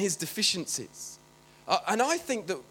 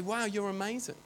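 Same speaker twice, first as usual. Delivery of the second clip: imagined gushing praise; 4 dB quieter than usual. Retold or imitated. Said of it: "you'd expect Jesus to say".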